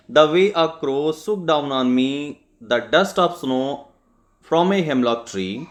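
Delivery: slow, measured poem recital; poem reading. Shown as a demonstration. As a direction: read each line slowly, savoring it. Teacher reads the poem aloud.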